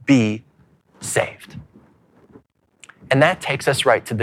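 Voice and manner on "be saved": desperate question. Retold or imitated. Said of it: "He says".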